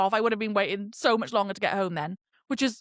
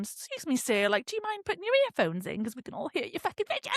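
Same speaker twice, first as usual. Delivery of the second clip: softer, tentative politeness; mock polite request; 2 semitones higher, 5 dB quieter than usual. Passenger asking man to use earphones, mock polite. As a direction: ask it softly, as if treading carefully. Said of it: "You could just politely ask them".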